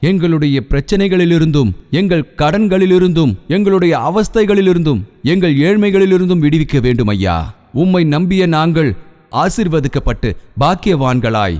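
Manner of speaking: earnest pastor's prayer building in intensity; fervent prayer. Acted. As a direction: pray aloud for the whole church, rising in fervour. Pastor leads congregation prayer.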